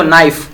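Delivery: "नाइफ" starting straight on the n; silent K. Shown as a demonstration. Teacher gives second kn- example, "नाइफ" with silent k. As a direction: say "नाइफ" with no k before the n. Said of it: "के का उच्चारण हम नहीं करते".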